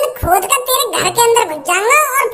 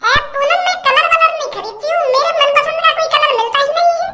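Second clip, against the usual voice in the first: higher, put-on girl's voice; a girl complaining about colours, voiced higher; Kallo voice; 5 semitones higher than usual. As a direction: play the fussy girl Kallo, pitched up. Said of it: "और कल्लो".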